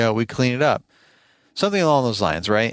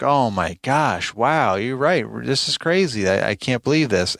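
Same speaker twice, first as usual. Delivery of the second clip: retold disbelief; 3 semitones higher than usual. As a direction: imitate a coworker's stunned reaction. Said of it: "in disbelief of the s-, previous stories".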